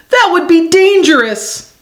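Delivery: high-pitched warning; half-shouted alarm; mild shout. A narrator's reading. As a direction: cry out a warning, storybook style. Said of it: "shouts Eddie".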